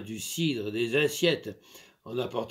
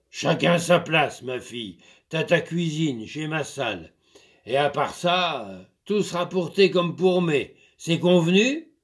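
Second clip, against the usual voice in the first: lightly voiced farmer, firm and a bit louder; stern master; 6 dB louder than usual. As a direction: lay down the law to the servant. Master settles things.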